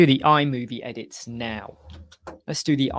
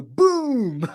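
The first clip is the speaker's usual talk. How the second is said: higher, louder reply shout; answering call across office; 8 semitones higher, 6 dB louder than usual. Retold or imitated. Coworker answering his catchphrase from far side of office, shouted reply. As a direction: call back from across the room. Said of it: "someone else on the other side of the office would go".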